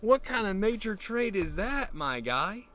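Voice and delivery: loud, high, drawn-out disbelief; slow, hollered bafflement; incredulous outburst. Acted. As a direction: shout in astonished disbelief. Astonished outburst over the deer story.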